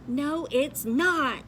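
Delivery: slow, cross denial. Acted. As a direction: drag it out, annoyed. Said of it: "said Shelley even more crossly".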